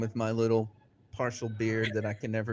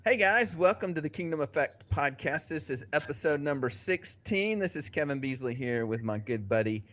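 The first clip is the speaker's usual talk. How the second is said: raised host intro voice; podcast intro; 3 semitones higher than usual. Acted. Host restarting the podcast intro, upbeat announcer voice. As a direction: retake the opening, upbeat.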